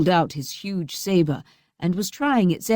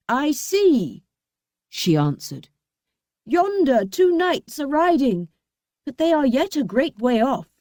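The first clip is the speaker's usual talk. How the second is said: high sing-song answer; sister Anne, lightly voiced; 7 semitones higher than usual. A narrator's reading. Anne answering from the tower. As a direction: report from the tower, lilting.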